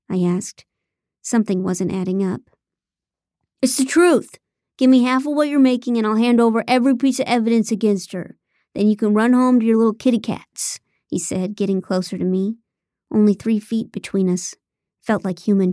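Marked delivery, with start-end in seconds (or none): 3.6-10.8 pushy taunt. Acted. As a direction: push the deal with a sneer. Ethan pressing a deal, voiced.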